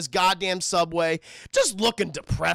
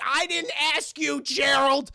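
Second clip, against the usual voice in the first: a touch of indignant wife, higher; retorting wife; 5 semitones higher, slower than usual. Retold or imitated. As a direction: snap back at the husband, mildly. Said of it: "She's like".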